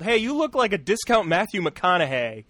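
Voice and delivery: imitated audience yell; retold heckle. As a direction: call it out like a crowd heckler. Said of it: "someone just yelled".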